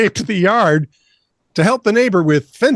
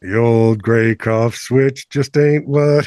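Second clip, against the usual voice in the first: mock folksy lament; 5 semitones lower, slower than usual.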